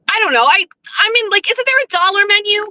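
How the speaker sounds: high, fretful suggestion; whiny Jeff. Retold or imitated. Jeff fretting over the cost, in a high fussy voice. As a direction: fret about the money in a high voice.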